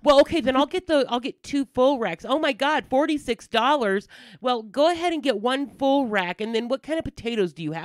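high, mock-flustered customer voice; indecisive customer imitation.

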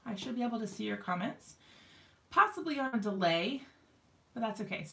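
winded after running down the hall; catching breath between words. Real, not acted. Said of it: "Sorry, I'm so out of breath".

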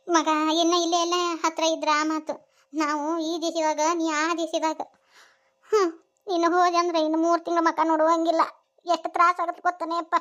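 mildly weepy mother's lament; a touch of crying in the voice; tearful. Acted. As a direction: plead with a son, close to tears. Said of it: "ಕಣ್ಣೀರ್ ಹಾಕಿದ್ರೆ ಹೆಂಗ".

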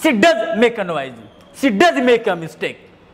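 slow, with does pressed; stress on does. Shown as a demonstration. Teacher dictates the example to students, stressing does. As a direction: spell it out slowly, weight on does. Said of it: "structure B का दूसरा example".

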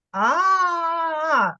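a long, open, sustained A; drawn-out A sound. Shown as a demonstration. Teacher demonstrates A sound for child, long and open. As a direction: hold a wide-open A. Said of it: "А ну давай з тобою разом скажемо".

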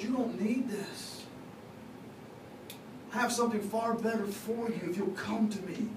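soft, gently imitated fatherly voice; lightly voiced loving God, coaxing; tender appeal. God inviting His child to come, tender appeal.

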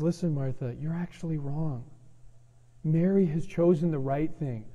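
lightly voiced Jesus, kind and gentle. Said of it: "in a really kind and gentle way".

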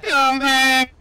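hammed-up space invader hunting a fleeing human; mock alien yelling come back here; alien chaser. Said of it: "sound like we're from another planet".

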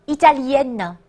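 Italienne with a sounded n, no nasal vowel; French feminine Italienne, final n pronounced; denasalised ending. Shown as a demonstration. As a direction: finish Italienne on a clear "en-nuh". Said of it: "注意它的发音要摘掉鼻音".

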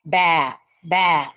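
mild baa; sheep bleat. Shown as a demonstration. Teacher bleats like a sheep for the class, lightly. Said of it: "अशा पद्धतीचे आवाज मेंढी काढते".

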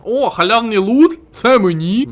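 high, loud, slow delighted cry; thrilled high-pitched "Це мені?"; excited squeal. Real, not acted. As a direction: squeal over the free loot. Excited at free loot.

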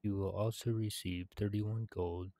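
steady storyteller read of the quest text; quest text read-aloud. Acted. Gamer reading quest completion text, storybook style. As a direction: narrate the ogre's thanks like a tale.

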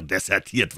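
"desertiert" set apart with a meaningful tone; stress on desertiert. A narrator's reading. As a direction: lean pointedly on "desertiert". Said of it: "legte einen besonderen Ton auf das Wort desertiert".

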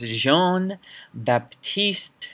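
slow French-accented name. Shown as a demonstration. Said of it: "Sorry for my French accent".

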